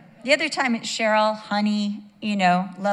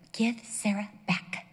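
soft, gentle mock request; lovey voice; 5 dB quieter than usual. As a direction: ask very nicely, softly. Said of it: "do it in your lovey voice".

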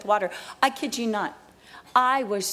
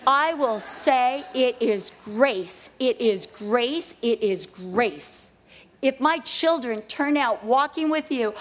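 slow earnest vow; slower than usual. Real, not acted. Vowing to God in prayer.

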